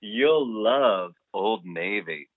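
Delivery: slow, drawn-out sales pitch; savored fake tagline; mock ad slogan. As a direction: pitch it slowly like a parody commercial.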